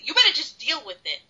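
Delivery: quick, half-serious telling-off; mild mock yell at an absent guest. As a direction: scold him directly, fast and firm. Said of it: "she's yelling right at him now".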